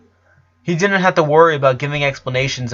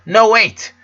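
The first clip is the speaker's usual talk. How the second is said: high, loud, urgent cry to stop him; desperate plea; 10 semitones higher, 6 dB louder than usual. A narrator's reading. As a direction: grab him with your voice before he leaves. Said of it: "The desperation he heard in her voice".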